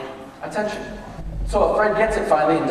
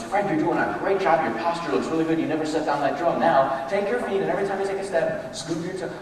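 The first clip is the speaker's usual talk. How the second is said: encouraging; 3 dB quieter than usual. Shown as a demonstration. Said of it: "gotten his attention as much as".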